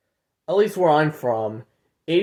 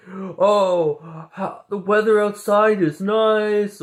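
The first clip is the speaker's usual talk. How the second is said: a lightly voiced chirpy game character, slower; generic NPC voice; 6 semitones higher, slower than usual. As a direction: parrot a canned NPC line, a bit higher. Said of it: "N P Cs are gonna say generic things like".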